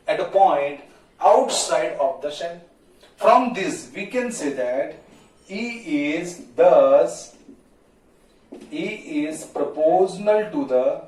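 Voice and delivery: slow, measured classroom dictation. Real, not acted. Teacher dictating the electric field formula to students, slow dictation. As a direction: spell it out slowly, phrase by phrase.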